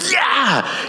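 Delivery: high, drawn-out cry of agreement; mock-angry high yell; joining the rant. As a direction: egg on a ranting friend, acted out. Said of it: "and he's ranting".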